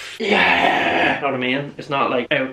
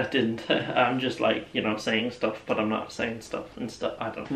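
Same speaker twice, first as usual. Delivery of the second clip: mock mumbling; 6 semitones lower, 8 dB quieter than usual. Mumbled fake-audio bit.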